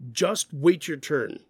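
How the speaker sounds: slow, stern scolding with just hit hard; a stern, frustrated telling-off. Shown as a demonstration. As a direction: scold a child who cut in line. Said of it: "You can hear frustration or anger or scolding in my voice".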